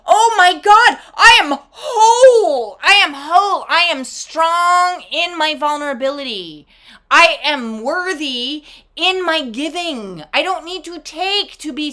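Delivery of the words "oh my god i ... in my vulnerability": loud, high, laughing elation; joyful release. Real, not acted. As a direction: laugh out the breakthrough. Joyful exclamation.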